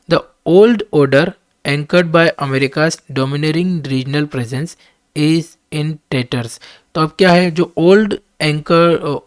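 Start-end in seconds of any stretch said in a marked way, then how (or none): 0.1-6.6 reading the English text out very slowly and deliberately; slow dictation reading. Acted. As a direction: spell out each word for students to follow. Reads editorial aloud slowly. (धीमी गति से पाठ पढ़ना)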